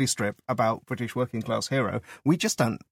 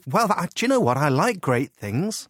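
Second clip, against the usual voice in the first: gullible voter; 4 semitones higher, slower than usual. Acted. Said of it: "Yet people go".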